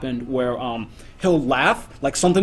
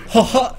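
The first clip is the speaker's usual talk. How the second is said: short high "ha ha"; imitated laugh; 5 semitones higher than usual. Shown as a demonstration. Demonstrating his friend's odd laugh, quick mock "ha ha". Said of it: "so he would just do, like, this".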